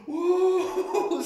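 very high, loud, drawn-out whoa; gasping, overwhelmed wonder; awed whoa. Retold or imitated. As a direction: let the whoa soar up in wonder. Gasps at the vision, tripping.

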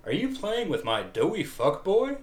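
exaggerated, high attempt at covering annoyance; anger played off. Shown as a demonstration. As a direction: push the pitch way up to disguise your anger. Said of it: "try that line again with".

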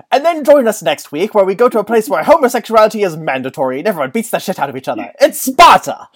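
lightly imitated documentary narrator; a hint of a grand British announcer building to a loud finish; BBC announcer voice. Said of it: "the B B C announcer voice was like".

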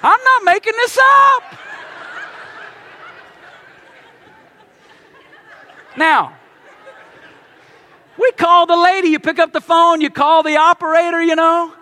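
loud, urgent pulpit storytelling; preaching at full force. Acted. Pastor telling his congregation about the stuck elevator, preaching loud.

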